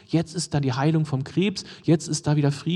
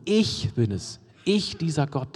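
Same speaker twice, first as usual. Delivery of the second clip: ICH leaned on at the start of each phrase; emphatic Ich, the rest falling away; stress on ICH; slower than usual. Shown as a demonstration. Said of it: "es ist eine extra Betonung".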